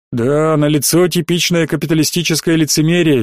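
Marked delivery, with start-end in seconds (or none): none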